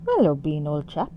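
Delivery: half-hearted bad British accent; terrible British accent. Shown as a demonstration. Streamer greets Bean as old chap, in a terrible British accent. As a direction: have a feeble go at a British accent. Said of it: "try my terrible British accent".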